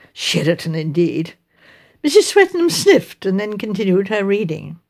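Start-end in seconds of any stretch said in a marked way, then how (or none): 0.1-1.3 lower, dismissive echo of SHERATON; scornful echo. Acted. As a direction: scoff at the word SHERATON. Scoffing at the advert's claim.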